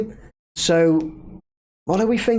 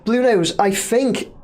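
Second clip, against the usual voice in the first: "Blue Nose" said slowly and deliberately for a viewer who can't hear; slower and clearer; 4 semitones higher, slower than usual. Shown as a demonstration. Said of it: "I was gonna shout then".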